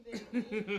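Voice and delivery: lightly voiced Austin Powers; a hint of the groovy British spy. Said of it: "like, an Austin Powers".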